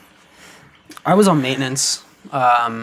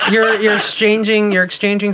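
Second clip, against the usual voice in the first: laughing; 6 semitones higher than usual. Real, not acted. Laughing while answering.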